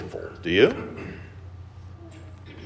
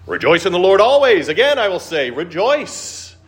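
scripture read in church; 9 semitones higher, 4 dB louder than usual. Retold or imitated. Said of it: "you come to church and you hear this".

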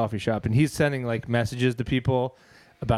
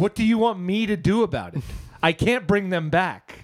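higher, exasperated comic protest; mock mad; 4 semitones higher than usual. To people who messaged about the dead, mock mad. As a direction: protest helplessly, slowing down at the end. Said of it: "you get mad at the people".

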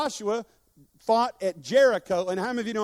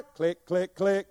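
car clicking; 2 semitones lower, slower than usual. Retold or imitated. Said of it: "You ever went out to crank your car?".

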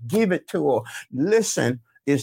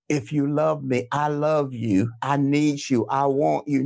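sweet-talking; 4 semitones lower than usual. Acted. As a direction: act out a smooth, coaxing plea. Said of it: "We don't say it like that".

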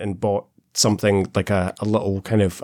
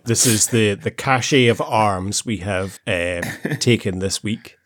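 police press statement. Retold or imitated. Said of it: "a chief inspector behind a desk".

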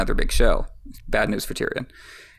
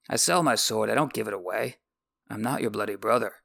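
lightly voiced sellsword, dropping softer; Bronn's voice; 4 dB quieter than usual. Bronn turning down Tyrion's plea, softer and final.

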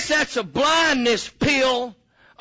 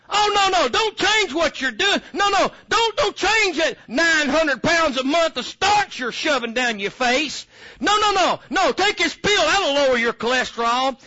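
mock shouting; 3 semitones higher than usual. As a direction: yell it in mock alarm. Mocking doctor's advice, shouting.

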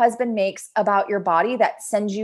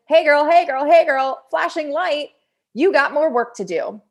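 playful sing-song; 4 semitones higher, 4 dB louder than usual. Pretend. Trigger as a friendly guidepost.

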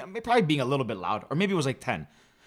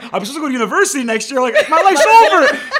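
high, loud mock despair, laughing; hammed-up teen meltdown over his future; retold despair; 9 semitones higher, 8 dB louder than usual. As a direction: wail it as if life is ruined, half joking. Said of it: "Right away, I freaked out".

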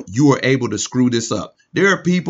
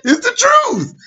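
high laughing disbelief; 12 semitones higher than usual. Real, not acted. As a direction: laugh through it, high and squeaky.

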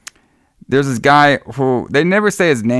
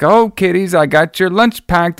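high, sing-song chirpy mother voice; mocking the wacko mom with the lunches; over-the-top mom; 6 semitones higher than usual. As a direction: ham it up like a forties movie mom. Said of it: "she's all like".

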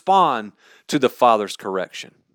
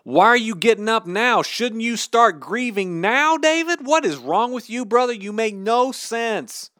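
baffled onlookers, pitched up and pressing; incredulous questioning; 5 semitones higher than usual. Retold or imitated. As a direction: ask as if he's lost his mind, voice climbing. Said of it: "They say".

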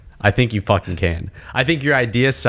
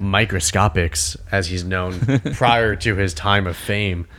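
documentary voiceover. Retold or imitated. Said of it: "talking over, like, the voiceover".

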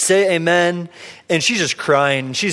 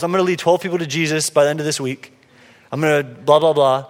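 mock grandiose boast; 3 semitones lower than usual. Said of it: "grandiose goals".

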